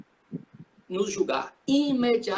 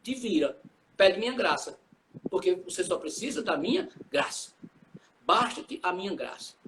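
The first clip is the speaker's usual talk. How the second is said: slightly lowered, unhurried divine reply; Jesus answering; 3 semitones lower than usual. Acted. Jesus refusing Paul's plea, a mildly lowered, measured reply. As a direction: answer the plea plainly, a touch low and measured. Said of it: "e Jesus disse".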